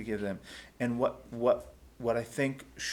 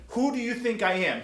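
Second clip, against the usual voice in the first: much higher and louder; bristling at correction; indignant who do you think I am; offended retort; 12 semitones higher, 8 dB louder than usual. Retold or imitated. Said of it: "he's trying to say".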